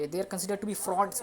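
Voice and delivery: slow English examples; slow model sentences. Shown as a demonstration. Teacher giving examples to students. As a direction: read them slowly.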